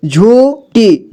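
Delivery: झूठी said slowly, ू drawn out; stretched long ू. Shown as a demonstration. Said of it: "उसमें आपको जोर देकर उच्चारण करना है". (झूठी को धीरे खींचकर)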